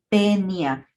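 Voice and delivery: "tenia" with a plain E, TE-nia; "tenia" set apart, AE sounded as E; diphthong reduced to E. Shown as a demonstration. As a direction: say "tenia" firmly, no A before the E. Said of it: "vamos a pronunciar a este género como".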